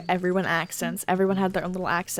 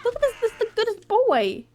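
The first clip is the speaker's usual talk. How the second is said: cooing pet talk; 14 semitones higher than usual. Real, not acted. Cooing over an animal in game.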